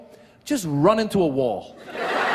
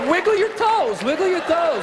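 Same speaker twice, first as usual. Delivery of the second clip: very high, helpless urging; mock-panicked high-pitched instruction; flustered coaching; 10 semitones higher than usual. Comic as husband who forgot the class, high flustered coaching.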